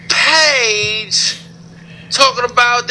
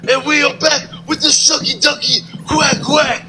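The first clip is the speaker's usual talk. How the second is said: Booker T impression; 3 semitones higher than usual. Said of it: "this is Booker T Sucker".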